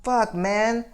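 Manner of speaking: high, drawn-out exasperated plea; retold high-pitched frustration; retold exasperation. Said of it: "I was pissed off by".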